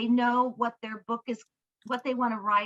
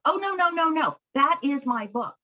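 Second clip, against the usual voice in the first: rising, louder no no no then firm; insistent protest; 3 semitones higher, 4 dB louder than usual. Retold or imitated. Client refusing the coach's verdict, insistent and louder. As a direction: insist it's her book, pushing back.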